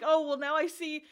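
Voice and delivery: hammed-up flustered complaint; flustered boy. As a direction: sputter like a rejected teen. Voicing flustered character.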